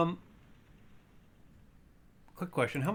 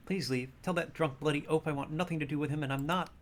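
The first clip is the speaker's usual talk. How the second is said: a touch of offence in the librarian; understated, irritated librarian voice; lightly voiced indignant librarian; 3 semitones higher than usual. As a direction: send them away, mildly indignant.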